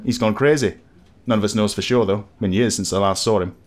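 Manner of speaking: lightly voiced Yorkshire villager, chatty; a hint of a gossiping northern local; village barman accent. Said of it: "leave my pitiful accents behind".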